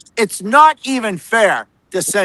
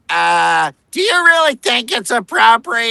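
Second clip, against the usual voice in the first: mock the smug gotcha question, pitched up; mocking reporter question; 4 semitones higher than usual. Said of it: "every question begins".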